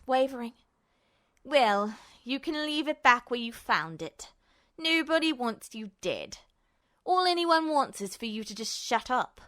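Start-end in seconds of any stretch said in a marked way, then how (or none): 1.4-9.4 cold villain. Acted. Justin coldly tells Ed to shut up. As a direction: talk down to him coolly.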